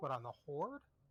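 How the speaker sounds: surprised, caught off guard. Reacting to a friend levelling a healer for the other side: surprised. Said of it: "why do you sound surprised?".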